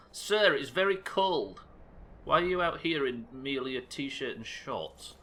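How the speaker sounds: a fussy guard scolding a stranger; prim guard voice. Acted. Guard scolds a man in shorts, slow and prissy.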